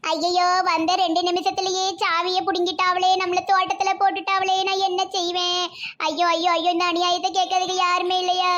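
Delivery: mild theatrical wail; lamenting. Acted. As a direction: moan aloud at the injustice, appealing for help. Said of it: "ஏம்மா புலம்புத?".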